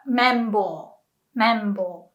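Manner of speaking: "membo" set apart, falling at the end; Japanese pronunciation. Shown as a demonstration. Teacher showing the Japanese word for cotton buds, clear demonstration. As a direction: model "membo" clearly, mem-bo with a long o. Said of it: "In Japanese, we call that".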